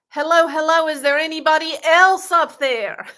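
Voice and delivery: hammed-up cry to anyone else up there; mock shout, punchline. Man ignores God and calls for someone else, mock shouting. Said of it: "And the man said".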